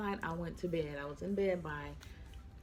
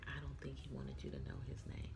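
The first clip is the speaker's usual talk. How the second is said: imitating the person next to her; 10 dB quieter, faster than usual. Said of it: "The person next to me was like".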